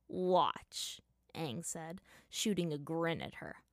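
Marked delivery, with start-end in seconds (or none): 0.1-1.0 whispered. Acted. Secret prank.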